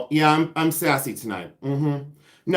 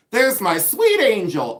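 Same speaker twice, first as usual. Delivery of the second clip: higher, drawn-out friend's greeting screech; mock screech; 6 semitones higher, 4 dB louder than usual. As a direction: imitate her screechy, slow greeting. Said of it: "she screeches and she goes".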